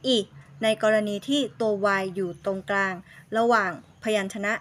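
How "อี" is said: "อี" cut short as a brief i; isolated short "อี"; phonics sound. Shown as a demonstration. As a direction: say "อี" as a short vowel, like อิ. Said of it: "และออกเสียง".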